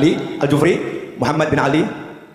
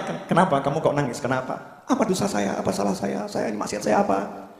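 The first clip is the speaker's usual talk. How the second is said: softer, worried asking; anxious questioning; 2 semitones higher, 7 dB quieter than usual. Acted. Scholar asking the weeping woman what his sin is, softly. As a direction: ask gently as if fearing your own fault.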